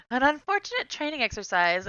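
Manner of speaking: a touch of mock-official delivery; Terrence Howard quote. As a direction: quote the film line with relish. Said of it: "quoted it as Terrence Howard said it".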